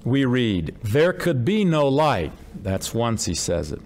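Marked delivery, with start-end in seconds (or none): 0.8-2.3 slow, emphatic no light; emphasized. Shown as a demonstration. Preacher stressing there could be no light. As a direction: lean on no light to make the point. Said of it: "he emphasizes that there's no light".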